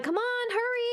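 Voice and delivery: high-pitched mock hurrying; imitated impatient urging. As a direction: rush someone along, acted out. Imitating staff rushing her.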